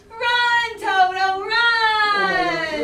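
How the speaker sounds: loud, bright, wide-eyed call; excited urgent cry. Shown as a demonstration. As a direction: cry out on tiptoes. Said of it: "bug out your eyes... tiptoes".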